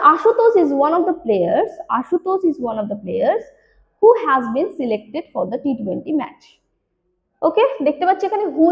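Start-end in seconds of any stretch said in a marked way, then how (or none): 0.1-6.4 slow, word by word question read; slow dictation. Shown as a demonstration. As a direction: read the question slowly to the class. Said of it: "বলছে". (ধীরে প্রশ্ন পড়ে শোনানো)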